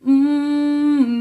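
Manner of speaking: loud, high hum; relaxed resonant hum. Shown as a demonstration. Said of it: "relax into it".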